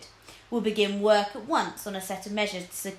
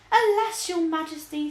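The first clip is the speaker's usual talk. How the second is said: sighing; 8 semitones higher, 6 dB louder than usual. A narrator's reading. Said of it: "sighed Spitterworth".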